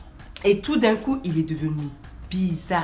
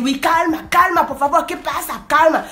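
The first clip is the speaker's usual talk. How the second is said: high, loud scared begging; panicked man pleading; frightened pleading; 8 semitones higher, 5 dB louder than usual. Retold or imitated. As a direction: beg her to calm down. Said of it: "Il a pris peur".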